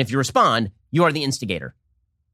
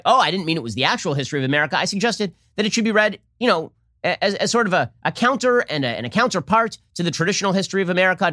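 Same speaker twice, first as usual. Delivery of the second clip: mocking Nicole Hannah-Jones; 4 semitones higher than usual. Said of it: "immediately walked that back".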